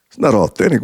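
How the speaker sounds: "It's not authentic?" rising as a disbelieving question; incredulous echo. Retold or imitated. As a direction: throw her words back in disbelief. He echoes her in disbelief.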